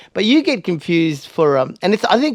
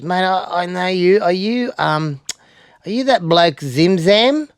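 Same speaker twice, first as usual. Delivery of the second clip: out-of-it stranger; 5 semitones higher, slower than usual. Retold or imitated. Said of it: "he's a little bit out of it".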